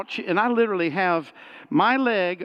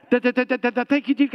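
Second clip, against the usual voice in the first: mock stutter; 7 semitones higher, 4 dB louder, faster than usual. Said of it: "another fifteen minutes of this stuff".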